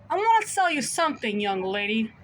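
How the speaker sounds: lightly voiced old man pushing a sale; old man pleading. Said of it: "he's probably in his seventies or eighties".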